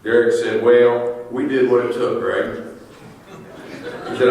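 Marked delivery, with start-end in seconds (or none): 0.6-2.6 lightly imitated Southern accent; a hint of a Southern drawl for a friend; understated Southern accent, slower vowels. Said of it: "In his deep Southern accent".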